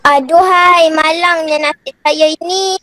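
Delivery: sad intonation. Pretend. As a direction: recite a woeful exclamation for the teacher. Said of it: "Alisa dengan intonasi sedih". (keluhan sedih yang dilakonkan)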